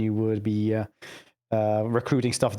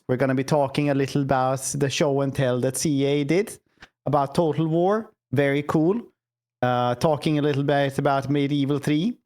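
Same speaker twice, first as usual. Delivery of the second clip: put-on Scandinavian accent. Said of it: "pure Scandinavian accent".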